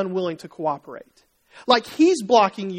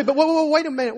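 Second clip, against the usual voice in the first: parent interrupting; 5 semitones higher, faster than usual. Acted. Parent halting the excited kids.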